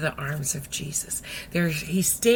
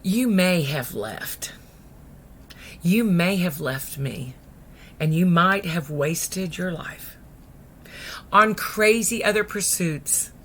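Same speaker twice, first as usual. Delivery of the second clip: slow, measured words with long pauses; solemn address; slower than usual. Acted. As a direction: speak slowly, as God to a wanderer. Preacher speaks as God.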